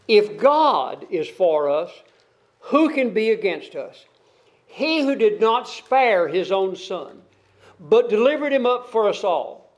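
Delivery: measured, solemn reading of the passage; scripture reading. Acted. Preacher to congregation, reading scripture in a measured solemn voice. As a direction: read the verses out like a preacher. Reads Romans eight aloud.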